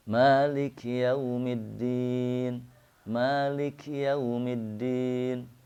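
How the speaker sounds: "Malik" with a crisp k, chanted slowly and high; slow chant with a clear kaf in "Malik". Shown as a demonstration. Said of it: "baca kaf".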